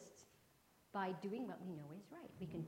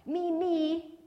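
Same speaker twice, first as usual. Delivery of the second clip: higher, louder eager shout; 9 semitones higher, 20 dB louder than usual. Acted. Kimberly shouting to the teacher to be picked, higher and loud. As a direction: yell it out to grab the teacher. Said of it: "shouted Kimberly".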